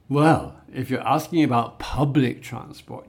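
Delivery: "well" loud and set apart, key words stressed in "public transport"; deliberate word stress. Shown as a demonstration. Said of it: "I'm stressing the words I want to emphasize".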